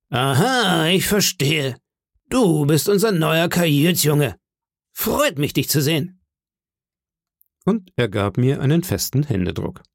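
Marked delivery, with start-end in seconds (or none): 0.1-6.2 high, hearty landlord's greeting; very loud welcome. Acted. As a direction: boom out a welcome to the new boy. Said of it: "sagte ganz laut".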